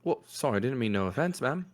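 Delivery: a chatty little urchin, half-voiced; urchin boy. Game master keeps voicing the urchin, a light cheeky boy voice. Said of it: "this little boy says".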